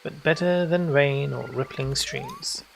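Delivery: slow, lilting reading of a verse; poem recital. Acted. Streamer reading the hobbit song to chat, slow and lilting. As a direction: let the rhyme roll out slowly. Reads in-game poem aloud.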